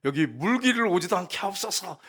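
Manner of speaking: mock-pious request with an edge; prickly plea. The woman asking Jesus for that water, prickly. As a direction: imitate a touchy woman pleading. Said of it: "얼마나 까칠한지 보세요".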